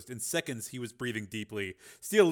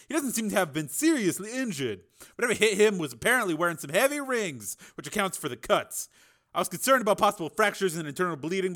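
higher, brisk doctor voice; 7 semitones higher, 5 dB louder than usual. A narrator's reading. Doctor explains injuries.

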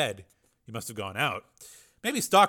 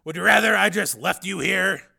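dry threat; 8 semitones higher, 10 dB louder than usual. A narrator's reading. Hero threatens.

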